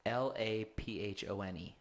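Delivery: letter-by-letter spelling. Real, not acted. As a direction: spell each letter in turn.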